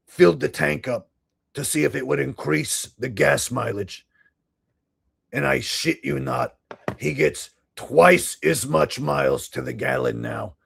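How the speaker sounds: thick Boston accent, mock-sincere pitchman; Richie from Boston. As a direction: sell it like a Boston huckster. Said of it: "Richie from Boston impression".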